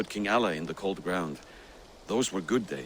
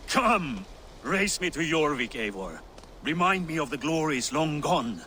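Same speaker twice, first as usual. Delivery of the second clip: put-on drunk; 5 semitones higher than usual. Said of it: "You're too drunk to win a race".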